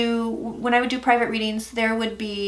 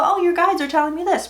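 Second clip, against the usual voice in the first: higher, breezy imitation of what psychics say; imitating psychics; 7 semitones higher than usual. Imitating what other readers tell clients, pitched higher. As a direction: lightly mimic the stock line "your guides are telling me this". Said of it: "it's common for people to go".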